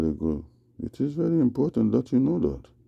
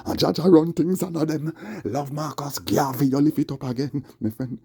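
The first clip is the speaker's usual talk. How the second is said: reggae toaster voice; 4 semitones higher than usual. Acted. Raised toasting voice.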